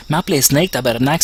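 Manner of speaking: mock Québécois Snake, lightly done; a hint of Québécois twang; Québécois accent. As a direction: throw in a Québécois swear, half-joking. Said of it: "Snake québécois".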